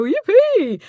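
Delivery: high-pitched acted yippee; gleeful cheer. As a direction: let out a mock burst of delight. Acts out glee at getting scripts.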